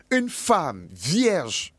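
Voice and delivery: very slow, each word weighed; solemn slowed prophecy line; slow emphasis. Acted. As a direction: drag it out to let it sink in. Preacher stressing the prophecy.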